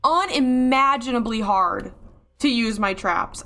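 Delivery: drawn-out, exasperated complaint; frustrated yelling. Real, not acted. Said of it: "I'm yelling a lot".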